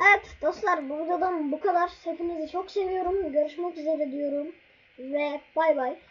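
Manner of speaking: cheerful outro. Real, not acted. Cheerful YouTube outro sign-off.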